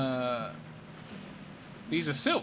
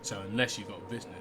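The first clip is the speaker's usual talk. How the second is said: shady stranger; 3 semitones lower, 4 dB quieter than usual. Acted. Bardolph brushing off a stranger, lightly wary. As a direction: keep the stranger at arm's length.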